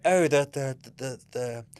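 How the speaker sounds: mock announcer voice, barely holding in laughter; laughing mock quiz call. Quizmaster reading the team names, mock and laughing. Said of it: "So they're like".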